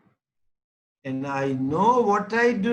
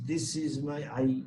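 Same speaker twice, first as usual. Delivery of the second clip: put-on lower, softer, quick little-child reply; baby answering; 5 semitones lower, 6 dB quieter, faster than usual. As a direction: rattle it off like a toddler.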